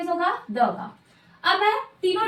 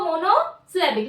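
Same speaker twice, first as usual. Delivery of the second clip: slow, careful term; slower than usual. Shown as a demonstration. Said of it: "क्या बोल रहे हैं हम इसको?".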